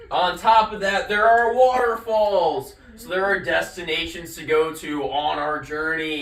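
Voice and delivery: pushy salesman pitch voice. Pretend. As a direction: sell it like a salesman. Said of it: "I'm speaking in my salesman's voice".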